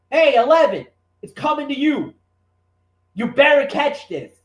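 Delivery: a hint of a coach hollering to his receiver; calling out to player.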